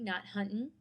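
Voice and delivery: huntin' with the final g dropped. Shown as a demonstration. Teacher demonstrating the dropped g in huntin'. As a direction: say huntin' ending in n, no g. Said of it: "avoid dropping off sounds".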